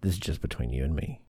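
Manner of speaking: soft confiding secret voice; tittering gossip whisper. Pretend. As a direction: hush it like a shared secret. Confiding aside to listener.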